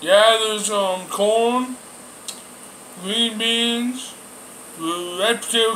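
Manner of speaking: talking with food in mouth; speaking between bites of food; chewing while talking. Real, not acted. Seen 0: Took a forkful just before; mouth works while he names foods.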